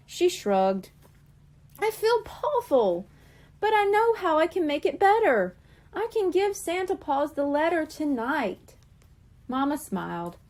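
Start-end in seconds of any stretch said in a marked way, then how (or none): 1.8-8.8 Coral's voice. A narrator's reading. Coral remorseful to Mama.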